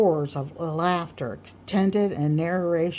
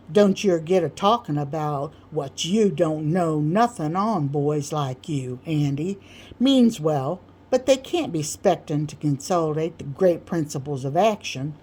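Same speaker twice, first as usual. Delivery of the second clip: awful superiority. Acted. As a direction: talk down from a great height. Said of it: "said Sam with an awful superiority".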